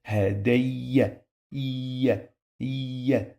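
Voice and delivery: hadayya with the y held and doubled, ha-day-ya. Shown as a demonstration. Teacher showing the letter pronounced two times, doubled y. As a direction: draw out hadayya, then isolate its ending as iya. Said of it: "I pronounce the letter two times".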